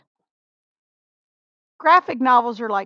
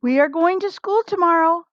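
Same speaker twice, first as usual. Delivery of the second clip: Farmer Brown; 6 semitones higher, faster than usual. A narrator's reading. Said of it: "said Farmer Brown".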